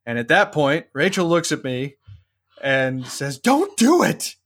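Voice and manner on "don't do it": high, pleading don't-do-it; urgent plea. Retold or imitated. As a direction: beg him anxiously to stop. Wife urging him not to.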